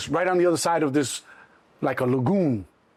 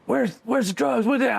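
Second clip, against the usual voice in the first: demanding cop; 6 semitones higher than usual. Retold or imitated. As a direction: press him like an interrogating cop. Cops questioning him roadside.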